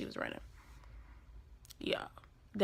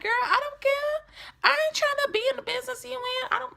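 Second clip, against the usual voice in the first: high, fast, dismissive sass; sassy brush-off; faster than usual. Retold or imitated. Fed-up teen telling the talkative girl in juvie to drop it, sassy brush-off. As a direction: shut the chatterbox down, unimpressed.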